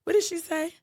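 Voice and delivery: high, emphatic declaration. Retold or imitated. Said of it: "And Starla's like".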